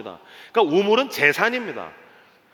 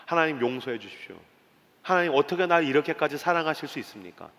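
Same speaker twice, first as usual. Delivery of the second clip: tearful prayer; 5 semitones lower, 6 dB quieter than usual. Acted. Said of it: "엉엉 울었을 것입니다".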